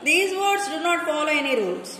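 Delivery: ordinary delivery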